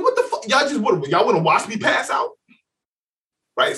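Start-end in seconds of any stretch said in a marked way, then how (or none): 0.0-2.3 laughing disbelief at friends watching him get choked; retold outrage. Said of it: "I'm like".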